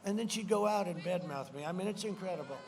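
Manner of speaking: usual speaking voice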